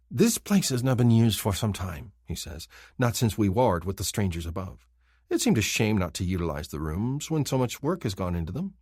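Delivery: sly villain voice. Acted. Kinfar shows the cell.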